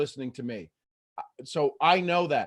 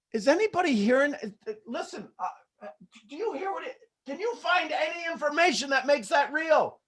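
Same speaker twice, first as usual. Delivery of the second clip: a higher voice calling into an empty room; lightly acted searcher, pitched up; brain calling out; 10 semitones higher than usual. Brain calls out to the memory.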